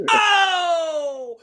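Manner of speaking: long, high excited holler; over-the-top host outburst; Steve Harvey. Acted. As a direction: shout it out in mock amazement. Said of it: "he just gets so excited".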